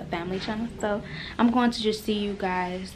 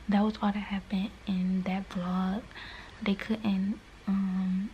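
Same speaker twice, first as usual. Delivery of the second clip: whispering; 4 dB quieter than usual. Real, not acted. Whispers most lines, baby sleeping.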